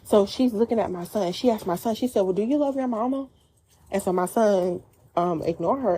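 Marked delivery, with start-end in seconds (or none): 2.2-3.3 higher-pitched, snarky needling question. Retold or imitated. Stranger questioning a mother's son in the restaurant, snarky. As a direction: pointedly ask it, pitch lifted. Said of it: "a snarky way".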